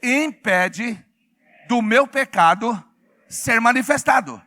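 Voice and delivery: loud chant in short separate phrases; loud call-out. Shown as a demonstration. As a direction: lead the congregation phrase by phrase. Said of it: "fala bem alto assim".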